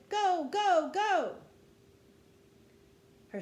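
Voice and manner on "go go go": high, loud cheering on a racer; excited shout. A narrator's reading. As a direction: shout it out, urging them on. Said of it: "as she jumped and shouted".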